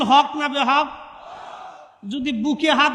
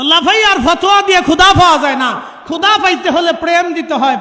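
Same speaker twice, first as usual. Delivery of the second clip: rising shout; 3 semitones higher, 6 dB louder than usual. Real, not acted. Preacher raises voice to crowd.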